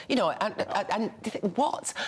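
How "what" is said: surprised. Retold or imitated. Her stunned reaction to meeting.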